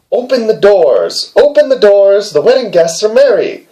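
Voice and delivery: lightly voiced hare calling at the door. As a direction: call it out high and drawn. Hare calls to bride.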